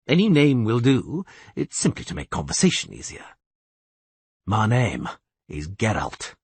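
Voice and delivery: terse witcher. Acted. Geralt answers, low and even.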